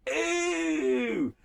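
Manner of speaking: high, drawn-out squeal of disgust. Real, not acted. Host reacts with disgust to a flirty line, high squeal. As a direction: recoil with a squeaky ew.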